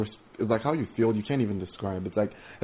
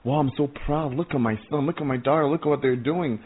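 lightly acted proud exclamation, a little higher; proud Father God; 3 semitones higher than usual. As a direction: marvel proudly, as if showing off your children. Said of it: "look down on earth from heaven and say".

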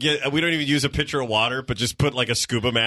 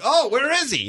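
mock searching; 11 semitones higher than usual. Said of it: "and you're like".

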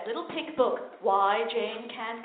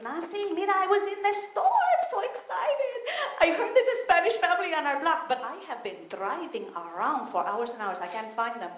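excited mom; 4 semitones higher, 4 dB quieter than usual. Retold or imitated. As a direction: gush about the news. Excited mother with news.

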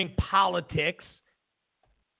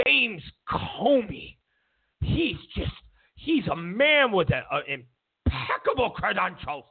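mock tearful praise. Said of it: "They're like".

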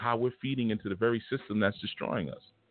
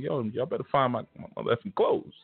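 going off; 5 semitones higher than usual. Retold or imitated. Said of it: "the elder was going off like".

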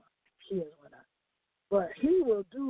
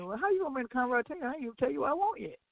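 surprised retort; 5 semitones higher, faster than usual. Retold or imitated.

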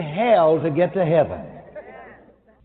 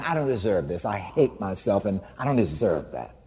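self-hating inner voice; 8 semitones lower, 5 dB quieter than usual. Retold or imitated. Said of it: "You're really saying".

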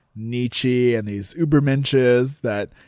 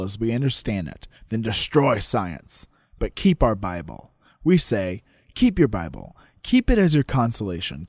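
measured courtroom oration, slowed on key lines; oratory reading. Acted. Reading Malone's speech to the court, measured oration. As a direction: deliver it like a closing argument.

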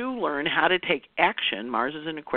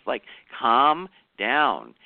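slow calming; 3 dB louder, much slower than usual. Retold or imitated. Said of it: "And she's like".

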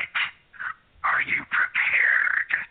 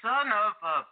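very high, slow squeaky curse; high-pitched cartoon squeak of outrage; squeaky cursing voice; 3 dB quieter, much slower than usual. Losing caller swears into phone.

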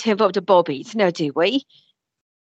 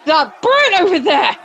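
higher, indignant accusation; mother accuses the man who hurt her girl; accusing mother; 7 semitones higher than usual. Acted. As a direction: point him out in outrage.

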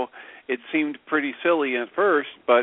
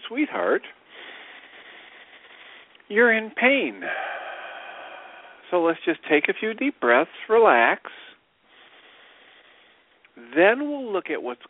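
put-on grandmotherly Jewish accent; 6 semitones higher than usual. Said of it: "grandmotherly Jewish accent voice".

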